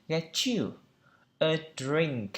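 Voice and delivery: "Get you a drink" with get-chew linked; teacher's model of linked "Get you a drink"; linked sounds. Shown as a demonstration. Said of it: "nếu như nối âm".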